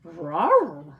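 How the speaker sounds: mock bear rawr. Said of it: "Old Bear followed his nose".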